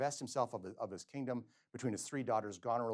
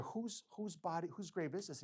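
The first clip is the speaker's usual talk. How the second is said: higher and slow, pressing the gravedigger; urgent question; 7 semitones higher than usual. Acted. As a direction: demand it slowly, rattled.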